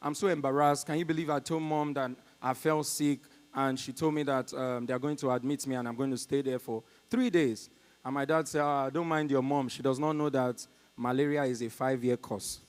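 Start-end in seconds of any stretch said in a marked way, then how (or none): 0.0-7.7 low, subdued complaint to a parent; weary, low-voiced venting; annoyed. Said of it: "out of annoyance". 8.6-12.6 lightly voiced dad, low and soft; a hint of a deadpan dad; calm father. Acting the father's calm reply.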